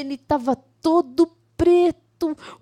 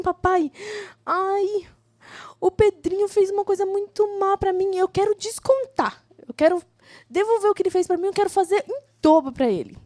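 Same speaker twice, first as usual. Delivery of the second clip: put-on lightly raised child voice, upset; a hint of an upset boy; 5 semitones higher than usual. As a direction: play the hurt little boy complaining to dad. Child voiced telling his father. (menino chateado falando com o pai, voz um pouco mais aguda)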